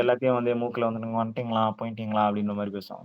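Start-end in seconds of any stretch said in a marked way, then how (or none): 1.0-2.2 nasal voice. Shown as a demonstration. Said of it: "மூக்குல பேசுவாங்க ... hyper நேசா".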